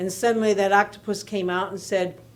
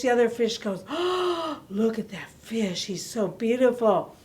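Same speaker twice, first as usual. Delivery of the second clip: lively, expressive read-aloud; picture-book storytelling; reading to children; 3 semitones higher than usual. A narrator's reading. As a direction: tell it warmly to little listeners.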